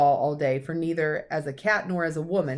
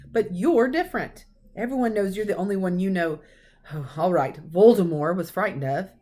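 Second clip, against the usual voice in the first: half exasperated, half admiring; 2 semitones higher, 5 dB louder than usual. Acted. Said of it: "sounding half exasperated, half admiring".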